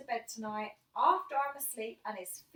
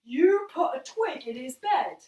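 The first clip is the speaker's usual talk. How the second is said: louder, slow disbelieving father; stern dad; 11 dB louder, slower than usual. Retold or imitated. Dad questioning his son about the twig, loud and slow. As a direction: drag it out like a stunned strict dad. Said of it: "And my dad goes".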